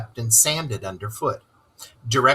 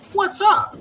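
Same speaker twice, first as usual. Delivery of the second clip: surprised; 4 dB louder than usual. Acted. Rat calling out surprised.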